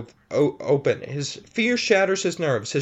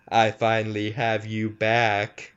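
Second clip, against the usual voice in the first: creature grin; 7 semitones lower than usual. Acted. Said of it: "the creature grins and says".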